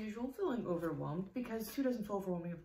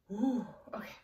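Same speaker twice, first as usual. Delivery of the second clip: ordinary delivery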